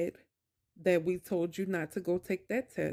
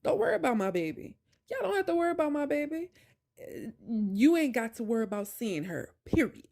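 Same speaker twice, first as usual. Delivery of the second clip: retold telling off; 3 semitones higher than usual. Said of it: "at the end I said".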